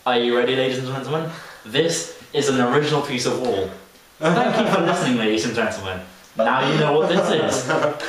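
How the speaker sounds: lightly voiced condescending guide addressing the group; mock tour guide. Teen mocking a tour guide to her friend, condescending. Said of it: "she was so condescending as well".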